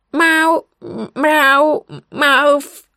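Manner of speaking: высокие громкие кошачьи «мау» на весь пляж; мяукни громко и настойчиво, выпрашивая еду; громкое мяуканье. A narrator's reading. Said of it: "прозвучало на весь пляж". (громкое требовательное мяуканье)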